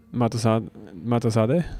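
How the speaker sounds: MATASADE said as if it were a Japanese word; Japanese-style pronunciation. Real, not acted. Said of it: "my brain is just telling me to pronounce that in Japanese".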